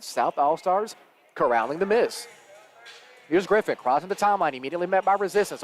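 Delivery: lively basketball commentary; live play-by-play. Real, not acted. Commentator following a drive to a foul, live play-by-play. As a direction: call the action as it unfolds.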